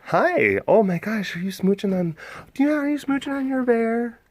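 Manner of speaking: high cooing voice to the dog; cooing at pet. Real, not acted. Talking to the dog with a bear toy, high coo.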